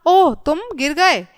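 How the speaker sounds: slow, drawn-out ओह of concern; a touch of dismay, taken slowly; mild sorrow. Shown as a demonstration. Teacher reading a sad exclamation example, mildly sorrowful. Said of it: "ये दुख का भाव है".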